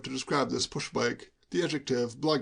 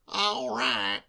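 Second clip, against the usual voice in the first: reluctant shudder; 8 semitones higher than usual. Acted. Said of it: "with a shudder".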